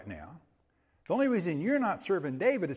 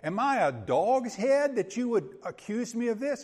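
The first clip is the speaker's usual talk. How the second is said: raised, insulted challenge; offended anger; 5 semitones higher, 3 dB louder than usual. Retold or imitated. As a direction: press the insult back on him. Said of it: "he goes into a fit of rage".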